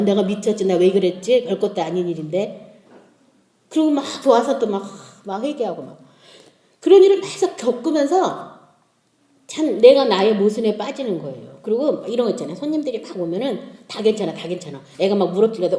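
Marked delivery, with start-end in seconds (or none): 0.0-2.8 low regretful self-talk; regretful self-reproach. Retold or imitated. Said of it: "그러고 나서 막 후회하잖아요". 13.9-14.8 low, soft reassurance; imitated forbearing mother, soft and low; reassuring. Hostess reassuring in front of guests.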